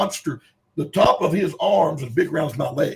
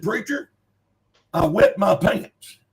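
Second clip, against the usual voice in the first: higher, drawn-out retold admission; retold shaken confession; 9 semitones higher, 3 dB louder, slower than usual. Big man confessing to the preacher, retold as a high, drawn-out admission. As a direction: stretch out the acted confession, pitched up.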